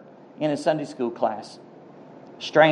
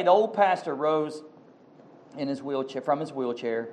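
softened narration; 10 dB quieter than usual. A narrator's reading. Preacher telling of the old pastor, dropping soft. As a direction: voice drops much softer for the frail pastor.

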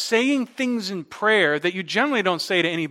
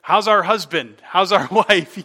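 mock question, laughing; 5 dB louder than usual. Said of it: "I don't look at you and say".

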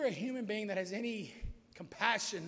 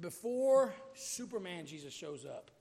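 slow, weighty superhero billing; bold build-up; 5 dB louder, slower than usual. Shown as a demonstration. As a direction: announce it big, stretching the words. Contrasts mighty and tender Jesus.

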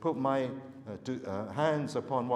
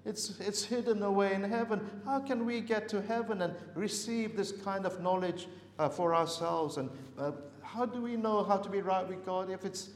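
a mildly higher, hammed-up lament; despairing cry; 4 semitones higher than usual. Preacher voicing people who think God's word is unreachable, mock despairing. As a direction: voice the hopeless seeker crying out. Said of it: "It's like a despairing cry".

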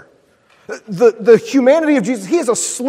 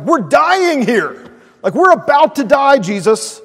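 terrified disciples, lightly hammed; mock panic; 5 semitones higher, 4 dB louder than usual. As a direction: wake him in a fright, half-joking. Panicked disciples waking Jesus.

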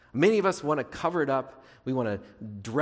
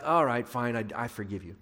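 grudging giving-in; 4 semitones lower than usual. Acted. God worn down by begging finally relents, mock grudging. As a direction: give in as if your arm was twisted. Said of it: "You can just twist his arm enough".

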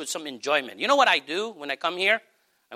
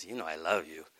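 low, intimate voice of God; God nuzzling close; 9 semitones lower, 3 dB quieter than usual. Acted. God coaxing a believer to be a bridge, low and intimate. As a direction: speak low, as if close at the listener's ear. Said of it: "if God nuzzles over to you and says".

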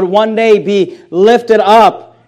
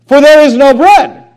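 mock complaint; 5 semitones higher, 7 dB louder than usual. Quoting complaint again.

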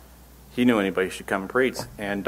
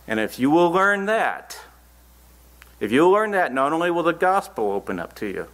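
fervent preaching; 7 semitones higher than usual. Acted. Preacher building to a climax.

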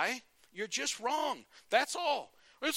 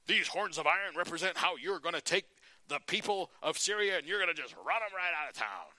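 hammed-up pumped-up prophet, a bit louder; false prophet hyping the king; 2 semitones higher, 4 dB louder than usual. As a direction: sell the king a victory, louder. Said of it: "And he says".

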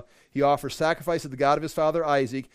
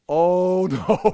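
mock terror; 4 semitones higher, 7 dB louder than usual. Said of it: "now they're like".

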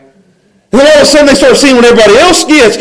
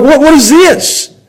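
tag; 5 semitones higher, slower than usual. Acted. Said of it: "they, they're like".

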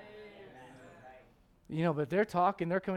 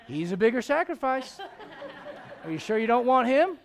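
louder, higher, laughing as he bargains; laughing mock plea; 9 semitones higher, 10 dB louder than usual. Pastor jokingly begging God, louder through laughter. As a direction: plead with a chuckle.

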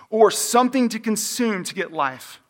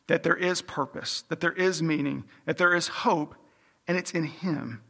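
softer, tender, lingering on each hope; gentle reassurance; 6 dB quieter than usual. Real, not acted. Preacher reassuring hopeless hearers, soft and tender. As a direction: comfort the troubled gently.

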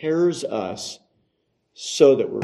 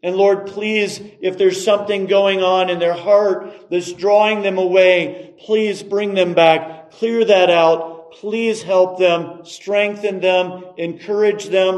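earnest, higher-pitched appeal to God; pleading prayer; 4 semitones higher than usual. Acted. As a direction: plead urgently on someone's behalf. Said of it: "but then pleading prayers".

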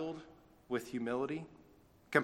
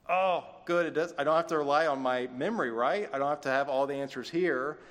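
louder, lightly voiced relieved pupil; mock relief; 2 semitones higher, 5 dB louder than usual. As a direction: imitate a pupil's relief at good news. Voices relieved pupil hearing open-book test.

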